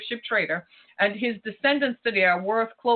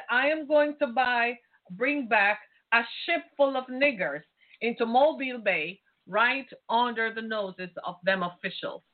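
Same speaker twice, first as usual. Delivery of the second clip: reading his quote; 2 semitones higher than usual. Retold or imitated. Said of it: "He said".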